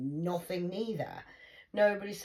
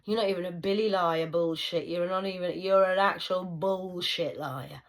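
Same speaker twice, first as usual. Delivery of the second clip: angry shout; 11 dB louder, slower than usual. Real, not acted. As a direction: tear into the liar word by word. Shouting at Trump.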